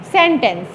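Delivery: सेंटेंस with the first syllable SEN stressed and TENCE unstressed; सेंटेंस stressed on the first syllable as in the word for a sentence. Shown as a demonstration. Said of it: "पहले वाले syllable को सेन को आपने stress बोलना है".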